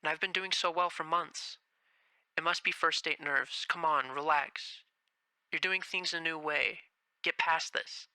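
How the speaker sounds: hushed, nervous self-talk; muttering to herself to stay calm; anxious inner voice. Acted. Haru talking herself down from first date nerves, hushed.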